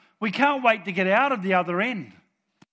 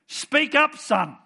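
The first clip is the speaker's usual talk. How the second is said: God on the throne; 9 semitones higher, 6 dB louder, much slower than usual. Pretend. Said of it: "he's sort of sitting up on the throne thinking".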